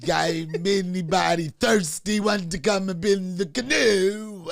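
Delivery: slow, loud mock Jamaican accent; a light Jamaican accent, drawn out and loud; hammed-up Jamaican accent calling from a canoe; Jamaican Bill Cosby. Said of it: "He turned Jamaican all of a sudden".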